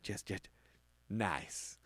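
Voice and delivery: Southern elf mumbling Jess; soft mumbling check. Retold or imitated. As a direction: mutter it down the list. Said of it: "he's like".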